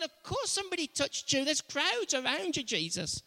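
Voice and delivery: mock disbelief at the question; exasperated disciples. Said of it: "the disciples will go".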